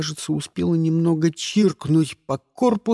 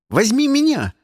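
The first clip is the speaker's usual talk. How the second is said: put-on high, louder pleading like a kid; childlike plea; 10 semitones higher, 5 dB louder than usual. A narrator's reading. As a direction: beg like a little child. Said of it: "как ребёнок". (детская мольба)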